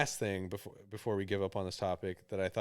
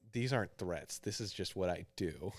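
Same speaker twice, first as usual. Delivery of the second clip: mock tough guy; 4 dB quieter than usual. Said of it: "trying to sound super fucking epic".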